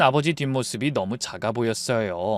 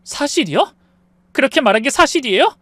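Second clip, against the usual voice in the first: angry disbelief; 10 semitones higher, 5 dB louder than usual. Acted. 부부싸움, 아내가 따짐.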